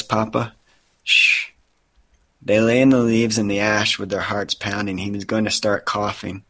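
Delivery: measured, earnest novel narration; story reading. A narrator's reading. Father reading a post-apocalyptic novel aloud, earnest story reading. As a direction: read the tense passage with understated drama.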